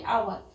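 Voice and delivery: hour begun on the vowel, no H sound; silent H. Shown as a demonstration. Teacher showing how hour is read, silent H. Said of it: "H is silent here".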